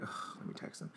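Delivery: unvoiced whispered sigh to himself; muttered aside. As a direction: whisper it like a private thought. Retelling his own thought to himself.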